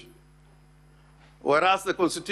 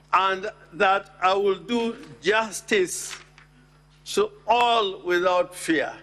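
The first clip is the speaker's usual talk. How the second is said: slowed, deliberate stress on "do justice to all"; emphasizing justice; slower than usual. Real, not acted. Senator stresses "justice" to the Senate, slow and deliberate. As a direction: lean on "justice" and drag the phrase out. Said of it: "I emphasize the word doing justice to all".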